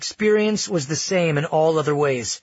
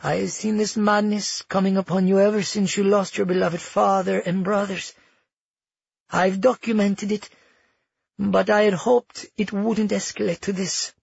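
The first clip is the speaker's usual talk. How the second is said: lightly voiced, higher-pitched matriarch; sorrowfully accusing grandmother; 5 semitones higher than usual. Grandmother declares her granddaughter mad, feigned regret. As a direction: deliver it as a regretful diagnosis.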